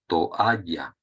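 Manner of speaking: "toalla" slowly as to-A-lla; "toalla" in careful syllables, to... alla; vowels separated. Shown as a demonstration. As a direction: say "toalla" with a break between O and A, A stressed. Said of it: "hay que separarlas".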